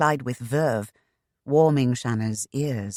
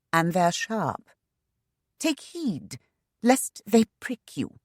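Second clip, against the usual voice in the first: hearty taunt; 5 semitones higher, slower than usual. A narrator's reading. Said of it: "Shanna assured him heartily".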